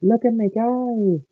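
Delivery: high, drawn-out show-off cry; Michael Angelus impression. Friend imitating Angelus as Diesel, high boast. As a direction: sing it out high and slow. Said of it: "Michael Angelus's Diesel impression".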